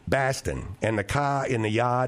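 broad Boston Yankee vowels, no R's; Boston accent. Shown as a demonstration. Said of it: "That's like a Boston".

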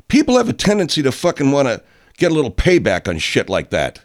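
high, loud furious yell; real anger. Real, not acted. Warning anti-maskers about payback, loud angry yell. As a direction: shout it at them, seething. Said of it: "why can't I get fucking angry".

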